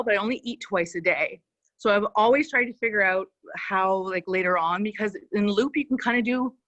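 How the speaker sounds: breathless, talking while exercising; puffing between words while working out; out of breath. Real, not acted. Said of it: "so if I'm out of breath".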